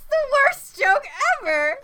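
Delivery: high laughing groan. Real, not acted.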